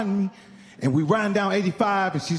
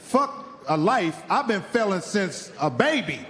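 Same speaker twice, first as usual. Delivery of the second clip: mock crying; slower than usual. Comic telling how he cried driving home, slow mock sob. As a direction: drag out the sob story, half-hearted weepy. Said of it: "I'm crying".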